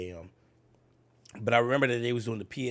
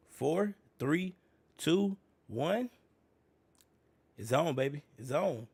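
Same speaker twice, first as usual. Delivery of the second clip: excited; 4 semitones higher, slower than usual. Real, not acted. Counting down to reveal.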